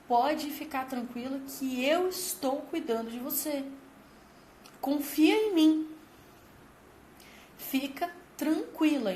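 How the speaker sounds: slow, gentle, soothing promise; calm her down, slowly; reassuring parent. Retold or imitated. A mother soothing her child at the pool, slow and gentle.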